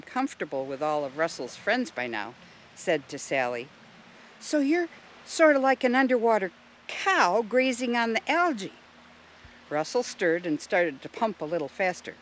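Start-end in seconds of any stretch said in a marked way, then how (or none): 4.4-8.7 high, lively, inquisitive voice; curious Jill. A narrator's reading. Jill likening the snail to a cow, curious. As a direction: lift it high with eager curiosity.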